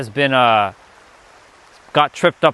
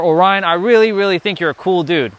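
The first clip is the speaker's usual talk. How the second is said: enthusiastic fan; 4 semitones higher, 3 dB louder than usual. Retold or imitated.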